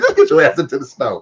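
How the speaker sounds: laughing retort. Retold or imitated. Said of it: "What you say?".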